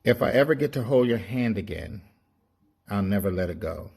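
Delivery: measured poetic delivery with pauses; poem recital. Acted. Poet sharing lockdown thoughts with listeners, poem recital. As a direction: recite it as heartfelt spoken verse, leaving space between lines.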